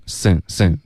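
"sen" ending on a clear tongue-tip n. Shown as a demonstration. Teacher restores a dropped syllable, "sen" with clear n. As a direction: finish "sen" with the tongue tip, not nasalised. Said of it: "s后面要顶舌尖".

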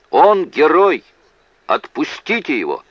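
high, loud cry, easing at the end; barked outburst. A narrator's reading. Witness demanding the accused be freed, barking. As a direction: bark it out in defiance. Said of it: "рявкнул Луни".

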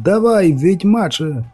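high, slow rousing cry; drawn-out, high-pitched shout; barked command. A narrator's reading. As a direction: urge the fighter on, stretching the words. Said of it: "гаркнув мишур, розмахуючи прутиком".

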